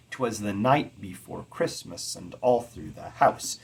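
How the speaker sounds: rocking da-da-DUM, stress on all; anapestic line. Shown as a demonstration. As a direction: read in steady anapests. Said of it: "That is an anapestic line".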